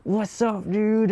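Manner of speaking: high, loud bro-style greeting. Retold or imitated. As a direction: toss it out like a swaggering guy. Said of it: "like, some guys are like".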